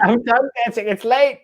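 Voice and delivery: high-pitched tired protest; mock whining. Co-host plays worn-out performer refusing, high whine. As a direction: join in with a put-on whine.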